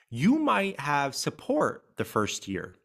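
might leaned on, slow and deliberate; stress on might. Shown as a demonstration. Host stressing to grieving listeners, slow stress on might. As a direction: hit the word might slowly. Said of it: "I'm gonna stress the word might".

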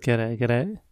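hammed-up Australian g'day; a cheerful Australian g'day; mock Aussie greeting. Host greeting his co-host in mock Australian accent. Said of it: "My horrible accent".

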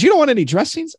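high, incredulous repeat; disbelieving question. Retold or imitated. Subway worker doubting the order, high and incredulous.

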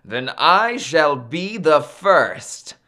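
slow, emphatic boast; boastful. Acted. Maui brags to his mother, boastful and deliberate. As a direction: proclaim it slowly and proudly. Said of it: "Maui boasted".

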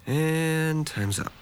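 slow, dry countdown ending; deadpan threat. Acted. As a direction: drop it slowly and dryly. Deadpan warning.

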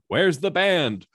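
loud, high, slow demand; demanding shout. Acted. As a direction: call it out like an angry mayor at a meeting. Mayor demanding the band at meeting.

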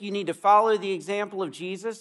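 rising, doubtful echo of the man's claim; a minister's mild, probing echo; questioning echo. Retold or imitated. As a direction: repeat his words back as a gentle question. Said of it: "and he said".

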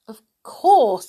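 put-on boy losing patience with a dim villager; impatient. A narrator's reading. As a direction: cut in impatiently. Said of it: "said Peter impatiently".

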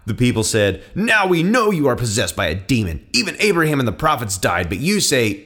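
firm, emphatic Bible narration with voiced dialogue; dramatic scripture reading. A narrator's reading. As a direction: read the gospel aloud with conviction.

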